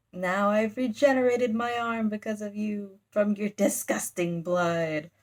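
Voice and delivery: lightly hammed-up monster disgust; bat devil. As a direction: declaim it as a pompous devil. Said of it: "they just talk so funny".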